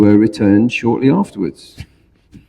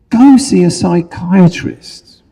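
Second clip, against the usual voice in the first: Labrador voice; 8 semitones higher than usual. Acted. Labrador gives advice.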